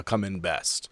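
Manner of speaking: usual speaking voice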